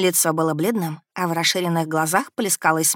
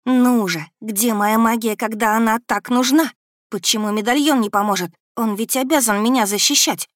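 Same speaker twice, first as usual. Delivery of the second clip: higher, louder frantic plea; desperate inner outcry; panicked; 4 semitones higher, 4 dB louder than usual. Acted. Heroine's panicked inner thoughts. (в отчаянии)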